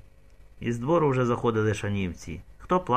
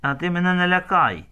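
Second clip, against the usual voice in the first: hissing defiance; 6 semitones higher, 3 dB louder than usual. Acted. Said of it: "чужий сичить".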